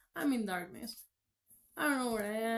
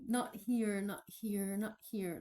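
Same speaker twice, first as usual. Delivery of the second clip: echo; 2 semitones lower than usual. Retold or imitated. Jesus echoing to her in the dark, a fading echo. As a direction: let it die away like an echo. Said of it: "it's like the echo".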